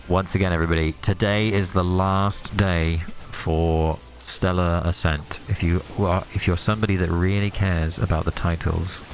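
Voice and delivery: ASMR whisper. Pretend. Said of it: "Dream A S M R".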